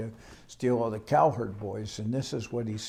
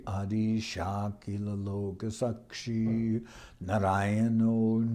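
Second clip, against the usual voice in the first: Sanskrit verse recitation; slower than usual. Acted.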